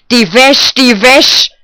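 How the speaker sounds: high, very loud repeated yell; loud, high-pitched carping; shrewish nagging. A narrator's reading. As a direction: screech it twice like a scolding old woman. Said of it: "keifte die alte Guschke von neuem".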